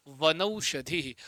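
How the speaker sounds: वनौषधि drawn out very slowly, syllable by syllable; teacher sounding out the joined word slowly; slow dictation. Shown as a demonstration. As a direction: stretch वनौषधि out slowly for the class. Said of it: "क्या बन जाएगा?".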